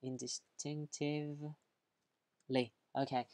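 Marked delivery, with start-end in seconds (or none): 0.0-1.5 soft, stretched "Indistinctively" with a break before the end; spelling-out pace. Shown as a demonstration. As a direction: say "Indistinctively" piece by piece, as if writing it. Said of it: "write it for you".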